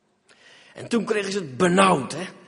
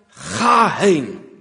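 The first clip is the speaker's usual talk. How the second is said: divine command; 2 semitones lower, 5 dB louder than usual. Acted. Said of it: "dat is Gods antwoord".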